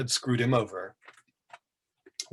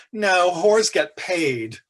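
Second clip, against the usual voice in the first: slow, deadpan quip with a raised voice; dry arch retort; 6 semitones higher, 4 dB louder, much slower than usual. Acted. Paul shrugs off the narrator's jibe, slow and dry. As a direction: savour the put-down slowly.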